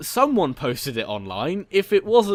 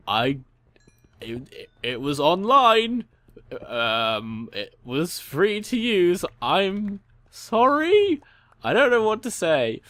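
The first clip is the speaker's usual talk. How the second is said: high, louder, slow nervous stammer; flustered apology; 7 semitones higher, 5 dB louder, slower than usual. Retold or imitated. Flustered apology to angry owner.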